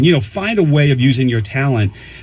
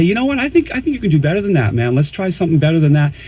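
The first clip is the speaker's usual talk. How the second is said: encouraging push; 3 semitones higher than usual. Retold or imitated. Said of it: "be upfront and say".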